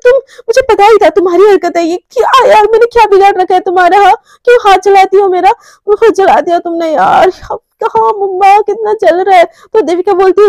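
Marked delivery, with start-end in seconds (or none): 0.0-9.4 angry outburst. Acted. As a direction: lash out at her for the burn. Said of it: "बहुत ज्यादा गुस्सा आ जाता है". (गुस्से में ऊँची आवाज़ में ताना)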